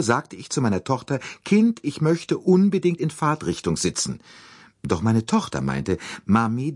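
high, chattering lady voice; fussy American lady. Acted. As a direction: gush and fuss like a nervous matron. Mrs Hubbard voiced.

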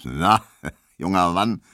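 lightly voiced gruff colossus; calling master. A narrator's reading. Burly master appears in the doorway, calling to the barber. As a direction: call out like a burly German master. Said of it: "rief er".

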